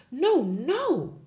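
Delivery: cried out. Acted. Teacher crying out against the headmistress. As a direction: cry out in dismay. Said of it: "Miss Honey cried out".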